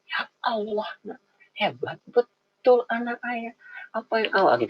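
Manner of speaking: delighted praise. Retold or imitated. A father praising his child's essay, delighted and high. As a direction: gush over the child's essay like a proud dad. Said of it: "saya bilang".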